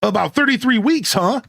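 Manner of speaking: high, stretched California surfer lilt on thirty-three weeks; California surfer accent. Acted. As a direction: tease like a laid-back California dude. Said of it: "This is how I would talk if I went to California".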